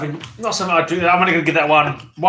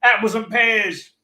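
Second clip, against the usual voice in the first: mock Cockney, sounding partly Australian; put-on Cockney accent; 3 semitones higher than usual. Londoner proves he is no Australian, in put-on Cockney. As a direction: trot out rhyming slang in a hammed-up Cockney voice. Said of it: "You just sound exactly like your Australian accent".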